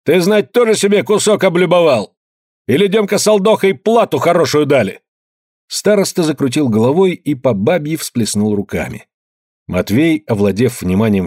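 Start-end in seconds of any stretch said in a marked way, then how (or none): 0.0-5.0 higher, raised accusation; accusing shout. A narrator's reading. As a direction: throw the accusation at the elder. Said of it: "Калистрат Зотов крикнул".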